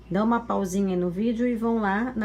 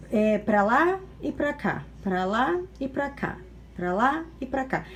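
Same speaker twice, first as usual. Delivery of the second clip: swaying rhythm. Shown as a demonstration. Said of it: "a valsa é uma dança que vai".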